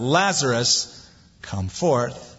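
slow, steady, firm command; measured authority, unhurried; commanding call. Retold or imitated. Jesus commanding Lazarus to come out, slow and firm. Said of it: "Jesus cried out".

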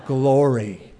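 flat, reluctant glory; sour glory. Pretend. Preacher acting a jealous worker's reluctant praise. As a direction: force the word out. Grudging reply to coworker's raise.

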